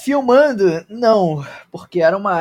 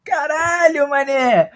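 shocked shout; 8 semitones higher, much slower than usual. Real, not acted. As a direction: blurt it out in shock. Shocked outburst at the roll.

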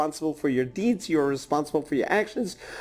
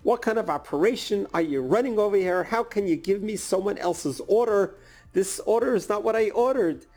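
frustrated customer complaining; 4 semitones higher than usual. Retold or imitated. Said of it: "she just let it out".

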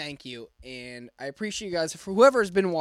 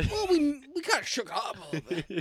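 high put-on family voice; squeaky family impression; 9 semitones higher than usual. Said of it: "me doing your entire family".

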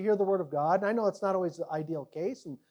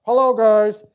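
louder, hammed-up booming voice from heaven; bad copy of God's voice; 11 dB louder, slower than usual. Shown as a demonstration. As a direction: do a deliberately bad imitation of God. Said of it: "I can copy the bad one".

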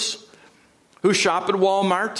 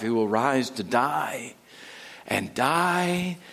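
fading repetition; 6 semitones lower, 6 dB quieter, slower than usual. Acted. Sermon ends in repeated die.

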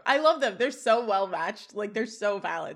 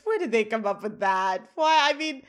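high, loud, indignant outburst; mock freak-out, rising and getting louder; screaming; 7 semitones higher, 6 dB louder than usual. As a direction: act out a panicked protest at full pitch. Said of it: "he screams".

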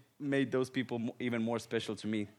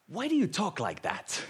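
put-on confused little girl; 9 semitones higher than usual. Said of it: "looks at me with this confused face".

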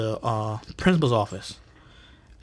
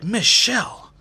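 whiny principal; 9 semitones higher than usual. Retold or imitated. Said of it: "he's like".

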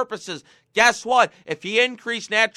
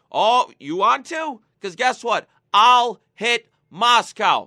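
slow, louder tough-guy threat; mock Trump threat; 3 semitones higher, 5 dB louder, slower than usual. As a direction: lean in and drawl the threat. Trump voiced threatening Putin.

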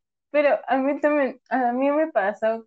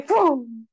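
explosion "fum" noise; quick vocal whoosh of a blast; imitated explosion. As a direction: mimic a muffled blast with the mouth. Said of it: "hubo una explosión adentro, así de".

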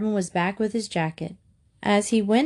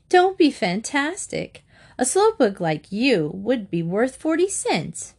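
scornful sisterly put-down; sneering; 5 semitones higher than usual. A narrator's reading. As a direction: start high and slow with disdain. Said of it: "sneered Sylvia".

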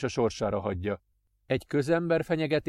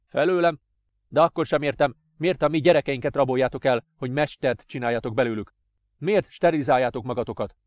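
louder, pressing questions; exasperated father; 2 semitones higher, 5 dB louder than usual. Acted. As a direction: demand an answer.

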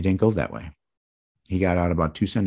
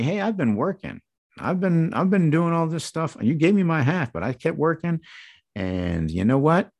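voicing the older brother. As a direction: whine it like the hard-working son who feels cheated. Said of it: "I'm speaking for him".

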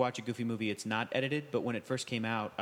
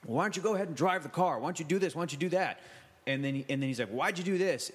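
mad Goofy; 3 semitones higher than usual. Retold or imitated. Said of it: "he tells Max".

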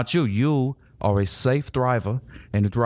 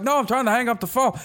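mock exasperation; 11 semitones higher than usual. Acted reply to person on line.

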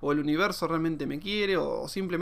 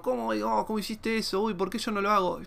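higher-pitched mock whine; imitated complaining; 4 semitones higher than usual. Followers asking how he did it, imitated complaint. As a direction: mimic envious onlookers, pitched up. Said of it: "ver gente quejándose o diciéndome".

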